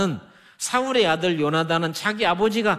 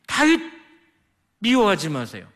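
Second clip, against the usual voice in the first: pleading son; 3 semitones higher than usual. Retold or imitated. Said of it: "요나단이 자기 아버지 앞에서 이렇게 말합니다".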